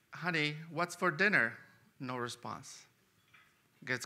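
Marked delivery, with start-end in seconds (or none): 0.1-1.5 husband calling out a little louder, testing her hearing; mild retold scream. Husband calls to his wife in the kitchen, mild mock call. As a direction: call toward the kitchen, only mildly raised. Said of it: "it screams".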